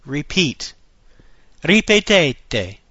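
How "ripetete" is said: Ripetete slow, ree-peh-TEH-teh; every syllable of Ripetete spelled out slowly; teacher modelling slowly; slow Italian model. Shown as a demonstration.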